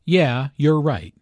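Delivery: "Yeah, you're right" run together as one casual chunk; blended words. Shown as a demonstration. Teacher showing casual agreement, words blended. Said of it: "The words all blend together here".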